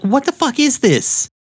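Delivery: high-pitched incredulous outburst; mock appalled. The speaker reacts to Steven's freakout, mock appalled.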